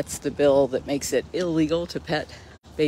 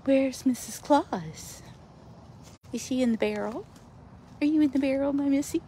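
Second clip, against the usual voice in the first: pet talk voice; 11 semitones higher than usual. Real, not acted. Calling to a pet cat.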